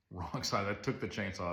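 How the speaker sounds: exasperated chuckle at the absurdity; real laugh of frustration; laughing in disbelief. Real, not acted. Third wrong blade, laughing.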